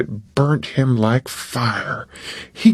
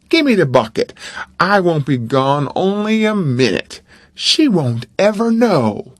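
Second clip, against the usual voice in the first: Tom brushing it off, raised pitch; lightly voiced boy making light of it; persuading boy; 2 semitones higher than usual. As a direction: talk him round, breezy.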